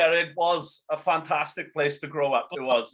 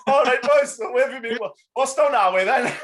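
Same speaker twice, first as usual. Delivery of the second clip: hearty lads' greeting; 4 semitones higher, 5 dB louder than usual. Retold or imitated. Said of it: "it's like".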